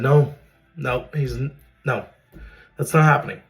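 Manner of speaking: loud, high insistent no to the doctor; firm refusal. Retold or imitated.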